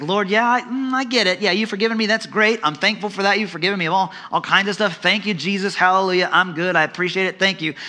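high, casual brush-off; mock churchgoer praying lightly; breezy dismissive prayer. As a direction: thank God without really meaning it.

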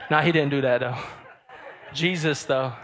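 laughing. Real, not acted. Laughs at own joke.

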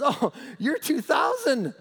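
high, slow, mock-impressed amusement; amused chuckle. Jesus is amused by the demons' boast, chuckling mockery. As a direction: draw it out with a teasing laugh. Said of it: "Jesus kinda chuckles, he smiles".

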